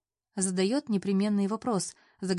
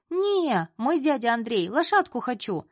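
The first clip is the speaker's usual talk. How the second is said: put-on child's voice; 5 semitones higher, 4 dB louder than usual. Children competing for uncle.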